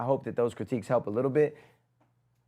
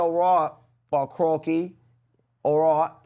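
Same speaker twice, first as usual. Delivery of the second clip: put-on Australian accent; slower than usual. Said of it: "in the accent".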